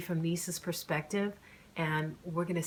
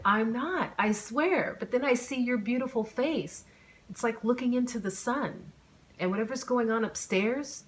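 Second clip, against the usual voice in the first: flustered rambling; 6 semitones higher, 4 dB louder than usual. A narrator's reading. Flustered guy rambling to her.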